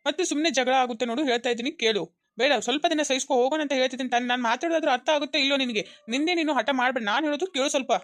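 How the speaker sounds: cross, impatient lecturing; irritated scolding. Acted. Husband losing patience with his stubborn wife, irritated scolding. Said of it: "ಒಂದು ಸಲ ನನ್ ಮೇಲೆ ಇಷ್ಟು ರೇಗಿಲ್ಲ".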